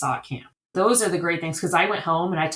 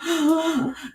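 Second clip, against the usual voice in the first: imitated sob gasp; 11 semitones higher than usual. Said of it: "and he's crying".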